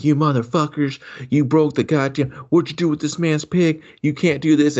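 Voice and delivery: high-pitched retold scolding; mock angry yelling. Woman yelling at junkies over stolen pig, mock angry yelling. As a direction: imitate a woman telling them off, pitched well up. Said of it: "this chick's yelling at him".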